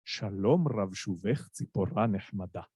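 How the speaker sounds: low, majestic Sephardi Hebrew recitation; Sephardi accent. Shown as a demonstration. Reciting Bialik's verse to show the audience, majestic Sephardi accent. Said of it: "recite it in the Sephardi accent".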